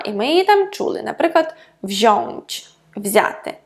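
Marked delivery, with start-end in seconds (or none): 1.8-2.7 wziąć with ą heard as ON; audible nasality. Shown as a demonstration. Teacher showing the infinitive, wziąć with audible nasal ON. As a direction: sound a clear nasal ON in wziąć. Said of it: "ми чуємо носовість".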